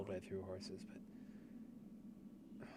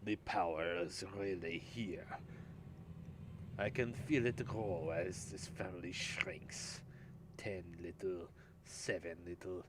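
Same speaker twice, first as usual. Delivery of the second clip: put-on German accent; 6 dB louder than usual. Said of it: "try to speak this in a German accent".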